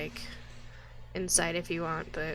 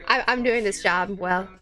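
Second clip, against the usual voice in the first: loud proud boast; 8 dB louder than usual. Real, not acted. GM boasting to confused party.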